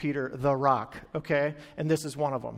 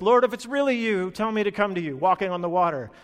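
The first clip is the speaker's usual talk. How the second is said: raised, louder call to Jesus; 3 semitones higher, 4 dB louder than usual. Acted. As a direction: call it across the water. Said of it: "calls to him and says".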